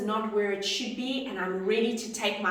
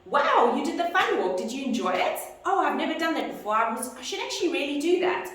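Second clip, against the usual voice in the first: excited small talk; 5 semitones higher than usual. Pretend. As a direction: gush over the client's fun walk shirt. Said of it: "and you can say".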